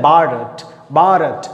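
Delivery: भारत said "Barat", with ब and a hard ट, English style; English accent. Retold or imitated. Teacher to class: an English accent on भारत. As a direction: imitate how the English say भारत. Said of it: "वो कैसे बोलते हैं".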